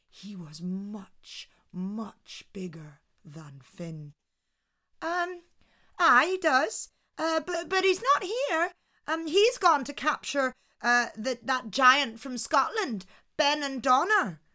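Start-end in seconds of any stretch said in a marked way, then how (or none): 5.0-14.4 higher, stammering feigned innocence; nervous Una. Acted. Una fibs to the giant, high and hesitant. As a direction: play the flustered housewife.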